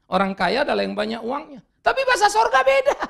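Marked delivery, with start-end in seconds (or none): 1.8-3.0 emphatic declaration. Real, not acted. Preacher climax line.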